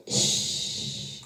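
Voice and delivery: a sharp unvoiced shh; hushing. Friend silencing the teller, a sharp unvoiced shh. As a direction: hush her up.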